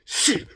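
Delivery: sharp hiss of a passing bullet; quick bullet sound effect; imitated bullet whiz. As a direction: imitate a bullet whizzing past. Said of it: "The first one whizzed".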